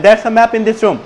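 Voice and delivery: teacher demonstrating a brisker, connected delivery. Shown as a demonstration. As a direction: run the sentence together without breaks. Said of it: "আরো fast বলতে হবে". (এক টানে, আরো তাড়াতাড়ি বলে দেখানো)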